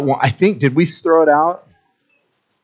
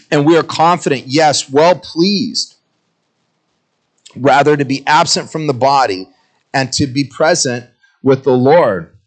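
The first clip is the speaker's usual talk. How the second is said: steady, lifted Bible reading; scripture reading. Acted. Preacher reading Paul's words to the church, emphatic reading. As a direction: read the verse with conviction. Reads the verse aloud.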